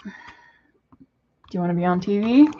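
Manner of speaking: slow hushed question with a rising end; slow whispered invitation. Real, not acted. Coaxing bird to camera.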